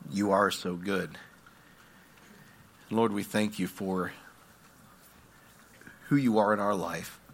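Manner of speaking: low, gentle, reverent prayer; earnest, subdued pastoral prayer; closing prayer. Real, not acted.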